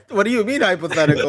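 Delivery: high mocking repeat of question; mocking echo. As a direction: parrot it back in a silly high voice.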